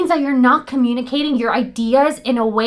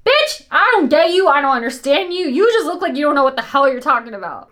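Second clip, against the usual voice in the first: mock exasperated retort. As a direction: play the fed-up listener, lightly hammed-up. Acted blunt listener's retort.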